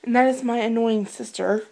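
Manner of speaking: loud, exasperated aside; annoyed sister callout. Real, not acted.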